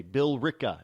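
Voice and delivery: Billerica as bill-RICKA; local pronunciation. Shown as a demonstration. Host showing how Massachusetts says it, Billerica as bill-ricka. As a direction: say Billerica in three syllables, E silent. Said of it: "commonly pronounced here in Massachusetts".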